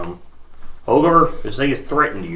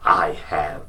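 low, slow menacing ogre; 6 semitones lower, 7 dB quieter, much slower than usual. Acted. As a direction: growl it slowly like a brute. GM voices the ogre.

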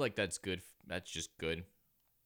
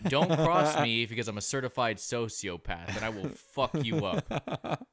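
loud, slow hammy threat; mock menacing threat; 3 semitones higher, 7 dB louder than usual. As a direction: play the tough sociopath.

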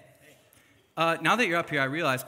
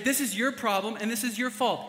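loud, high accusing jab; mock blaming; 8 semitones higher, 4 dB louder than usual. Son dumping the blame on his dad, hammed-up accusing. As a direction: point the finger in a hammed-up way. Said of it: "And I say".

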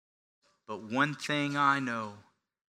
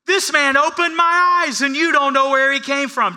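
a lightly voiced beggar, higher, needling the experts; mock amazed beggar; 12 semitones higher, 10 dB louder than usual. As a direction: play it wide-eyed to mock the bigwigs. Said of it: "He says".

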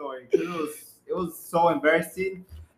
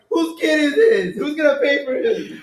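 louder, higher public challenge; retold demand; 5 semitones higher, 5 dB louder than usual. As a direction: demand an answer from everyone. Retold bus driver demanding payment.

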